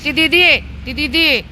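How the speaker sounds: high, loud scolding; scolding the dog. Real, not acted. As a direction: tell off the barking dog. (भुंकणाऱ्या कुत्र्याला उंच मोठ्या आवाजात रागावणे)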